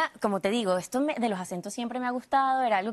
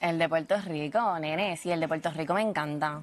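Puerto Rican accent; 5 semitones lower than usual. Shown as a demonstration. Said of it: "el acento puertorriqueño".

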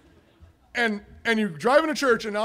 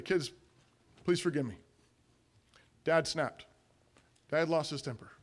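soft, subdued acted apology; gentle apology; 4 semitones lower, 7 dB quieter than usual. Dad apologises to kids in the car, soft and contrite. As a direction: own up softly, with pauses.

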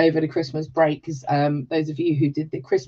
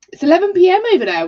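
higher, louder, rushed astonishment; amazed; 12 semitones higher, 8 dB louder, much faster than usual. Real, not acted. Host reacting to a New Zealand viewer, amazed, higher, louder and quick. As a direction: marvel at the late hour far away.

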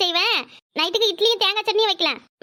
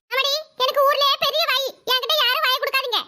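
sarcastic boast; 4 semitones higher than usual. Acted. Mother sarcastically boasting big mouth.

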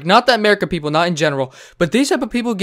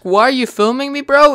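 higher, louder mock whine; mocking her question; 8 semitones higher, 5 dB louder than usual. Mocking the woman asking why she's filmed. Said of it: "And then you still ask".

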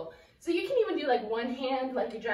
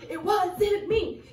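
slow and higher, stretched out; drawn-out denial; 7 semitones higher, 4 dB louder, much slower than usual. Pretend. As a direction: drag the line out like a chant. Dance chant, repeated.

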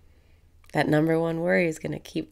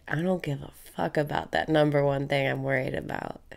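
defiant affirmation; 3 semitones lower, faster than usual. Shown as a demonstration. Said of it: "Breathe in and say".

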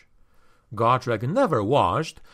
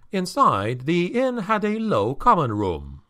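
ordinary delivery

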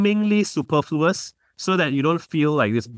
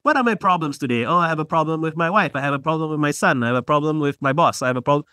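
silly sing-songy. Shown as a demonstration. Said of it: "like, in a silly sing-songy voice".

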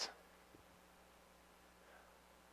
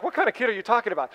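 laughing disbelief; 5 semitones higher, faster than usual. Retold or imitated.

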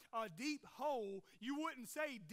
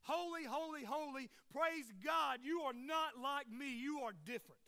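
angels worshiping; 2 semitones higher, 5 dB louder than usual. Acted. Angels worshiping God for all eternity, emphatic praise. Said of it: "that one word is holiness".

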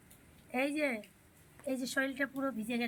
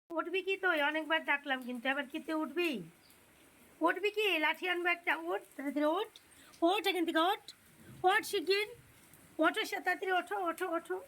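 higher, stern scolding threat; sharp impatient scolding; 4 semitones higher than usual. Real, not acted. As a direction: lose patience and scold. Threatening stick after coaxing fails.

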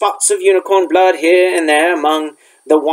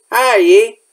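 higher, hearty greeting after relief; relieved; 5 semitones higher, 4 dB louder than usual. A narrator's reading. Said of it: "said Hagrid in relief".

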